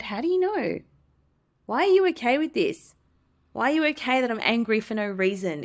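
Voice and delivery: mock indignant disbelief; incredulous. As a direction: demand to know why, retold. Acting out her incredulous thoughts.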